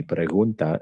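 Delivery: pregunta with a soft breathy G. Shown as a demonstration. Teacher shows the soft G in pregunta. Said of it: "It's very soft".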